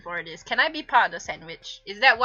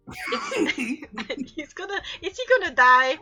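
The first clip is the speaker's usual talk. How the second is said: mock alarm; 6 semitones higher, 4 dB louder than usual. Real, not acted.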